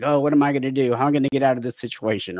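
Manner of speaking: mild imitated panic, rushing toward the end; a touch of pretend panic, quickening; mock panic. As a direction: lightly act out a worried flurry. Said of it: "like, panicking".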